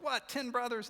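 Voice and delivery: high, loud incredulous question; mock astonishment. Joseph reacting to his brothers' claim, astonished. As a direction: blurt it out, taken aback.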